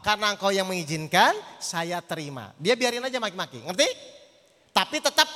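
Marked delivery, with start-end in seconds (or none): 0.1-2.5 lower, accepting prayer to oneself; inward surrender to God. Acted. Scolded spouse shifts thought to God, mildly resigned prayer. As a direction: turn inward and lower the pitch in submission.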